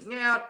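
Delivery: high, quick "nyeeat" zoom; imitated flying noise. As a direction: mimic something hurled through the air. Imitates demon flying off again.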